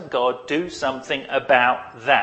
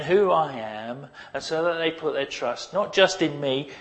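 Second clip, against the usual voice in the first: imagined Jesus; 3 semitones higher than usual. Retold or imitated. Preacher voicing Jesus talking aside to his Father. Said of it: "It's like Jesus is saying".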